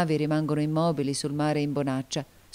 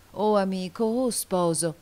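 slightly heightened, pleading invocation; higher, energised appeal; growing energy; 3 semitones higher than usual. A narrator's reading. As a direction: call on him with rising urgency. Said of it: "proseguì con crescente energia".

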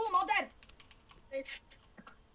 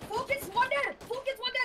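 pitched-up excited shout; excited callout; 5 semitones higher than usual. Real, not acted. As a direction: call out the kill, hyped.

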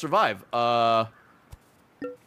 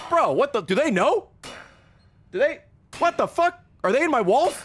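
alarmed disbelief; 8 semitones higher than usual. Real, not acted. Freaked out by a game scene.

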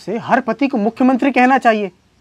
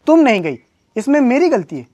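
indignant protest; 4 semitones higher, 4 dB louder than usual. Acted. Husband disputes blame with wife.

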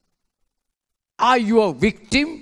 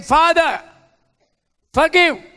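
loud, high anguished cry; crying out to the Father; 8 semitones higher, 6 dB louder than usual. Acted. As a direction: cry it up to heaven, much higher and louder. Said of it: "Jesus cried out".

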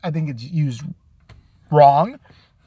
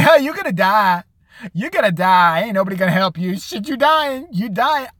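mocking taunt; 2 semitones higher than usual. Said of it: "and start saying".

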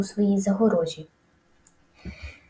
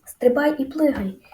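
higher, lightly crowed order; crowing rooster; 4 semitones higher, 3 dB louder than usual. A narrator's reading. Rooster urging the piglet to jump, lightly crowing. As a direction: call out high with a hint of rooster. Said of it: "кукурікав півень".

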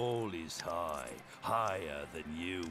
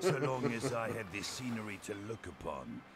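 villain monologue; faster than usual. Acted. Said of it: "Here comes the evil monologue".

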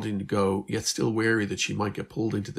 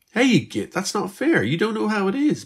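an indignant protest, higher and louder; 14 semitones higher, 7 dB louder than usual. A narrator's reading. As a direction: push back, stung and offended. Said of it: "Beth protested".

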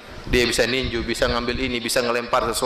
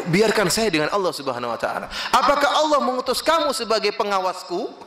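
mock irritated retort; 5 semitones higher than usual. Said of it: "yang ditegur pun emosi".

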